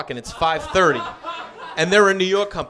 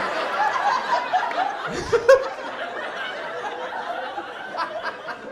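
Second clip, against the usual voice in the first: high breathless laugh; 4 dB quieter than usual. Real, not acted. Laughter at own story.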